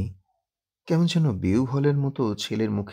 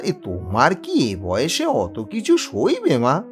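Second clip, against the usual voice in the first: embarrassed; 6 semitones higher than usual. Acted. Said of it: "আবার অপ্রতিভভাবে বলে".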